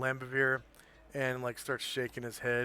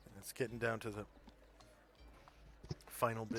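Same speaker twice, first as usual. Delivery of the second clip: talking between sips of smoothie; sipping a drink while talking; slurping; 2 semitones lower, 7 dB quieter than usual. Real, not acted. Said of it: "Pardon the slurping noise".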